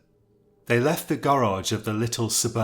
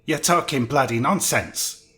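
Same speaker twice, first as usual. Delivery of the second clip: angry shout at the visitors; 4 semitones higher, 4 dB louder than usual. Acted. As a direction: bellow it in a red-faced rage. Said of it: "he shouted".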